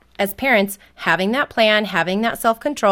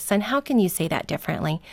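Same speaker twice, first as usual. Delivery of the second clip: gentle, softer coaching tone; smile in voice; 5 dB quieter, faster than usual. Shown as a demonstration. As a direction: patiently invite a child to rephrase. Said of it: "a smile in the tone of my voice".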